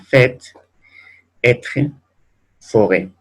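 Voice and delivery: "fait, être, forêt" each with open eh; word by word, open vowel in "fait, être, forêt". Shown as a demonstration. Teacher reading circumflex examples to students, open Ê. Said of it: "se va a pronunciar E".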